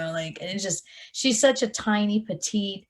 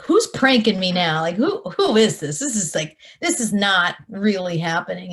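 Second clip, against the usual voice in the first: louder, disbelieving rush of questions; incredulous; 6 dB louder than usual. Retold or imitated. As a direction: sound like it must be a prank. Retold disbelief at phone call.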